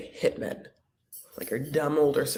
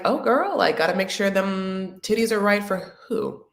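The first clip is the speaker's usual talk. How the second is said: put-on sassy girlfriend; 2 semitones higher than usual. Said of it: "It's a little bit like".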